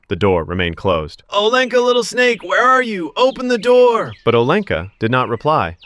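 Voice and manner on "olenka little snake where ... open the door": high, insistent snake call; snake calling again. Acted. Snake calling her silent daughter, high and insistent.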